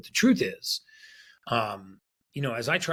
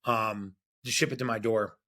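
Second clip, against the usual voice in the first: hurried agreement; 4 semitones higher than usual. Retold or imitated. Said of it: "he goes".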